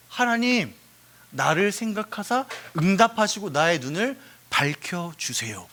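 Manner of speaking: measured acted prayer; understated supplication; prayerful pleading. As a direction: entreat God earnestly, without shouting. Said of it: "기도하고 있어요".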